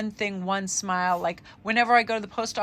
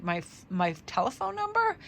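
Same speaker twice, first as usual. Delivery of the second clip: higher, taken-aback question; retold surprise; 5 semitones higher than usual. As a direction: stammer it back in mild disbelief. Startled reply to being asked.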